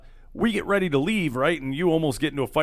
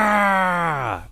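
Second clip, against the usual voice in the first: put-on drunken roar; 3 semitones higher than usual. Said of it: "gives out a".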